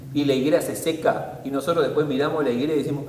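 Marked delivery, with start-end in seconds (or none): none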